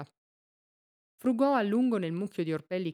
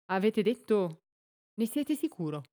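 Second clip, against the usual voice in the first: stammered in shock; 3 semitones higher than usual. A narrator's reading. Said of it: "Infine balbettò".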